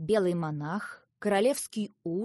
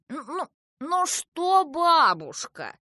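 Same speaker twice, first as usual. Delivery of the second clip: louder, drawn-out, high-swooping retort; exasperated echo; 8 semitones higher, 7 dB louder, slower than usual. A narrator's reading. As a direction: echo the children's cry back crossly. Grandmother mocks the children's cry.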